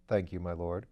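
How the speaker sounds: a composed valet answering his master; Bunter the valet. Acted.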